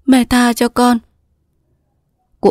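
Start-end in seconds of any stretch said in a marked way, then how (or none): 0.1-1.0 higher, pleading daughter sobbing lightly; tearful plea. Acted. Daughter begging her mother, tearful. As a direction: beg forgiveness through tears. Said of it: "Cúc nằm trên lòng cụ khóc nức nở".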